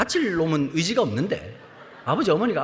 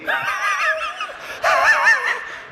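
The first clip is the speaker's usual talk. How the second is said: put-on high, strained gasping wheeze of an old man out of breath; wheezing gasp; 4 dB louder than usual. 산을 오르다 숨이 막힌 노인 모세, 헐떡이는 소리. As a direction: gasp for air like a worn-out old climber. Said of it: "막 이러는데".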